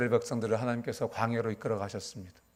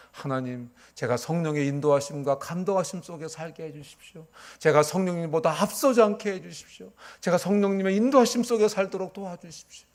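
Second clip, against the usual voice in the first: rising into a fervent, louder plea; fervent prayer; 4 semitones higher, 4 dB louder than usual. Retold or imitated. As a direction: pray it higher and louder, pleading. Pastor quotes his daily prayer. (점점 높고 크게 간절히 기도하듯)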